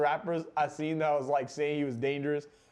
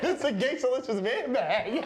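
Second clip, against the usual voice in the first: mocking a rapper's voice; 7 semitones higher, slower than usual. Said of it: "He's like".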